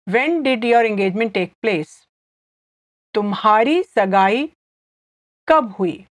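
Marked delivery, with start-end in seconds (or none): 3.1-6.1 fast, natural तुम्हारी सगाई कब हुई; quick normal pace. Shown as a demonstration. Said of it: "I'll say it again slowly".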